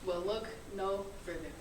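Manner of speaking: upbeat infomercial voice; chipper 1950s ad. Acted. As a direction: sell it like an old TV ad. Student reads a mock product ad.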